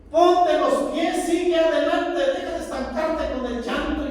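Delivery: preacher rallying the grieving to walk on; rousing exhortation. Acted. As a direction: push them forward. Exhortation to move on.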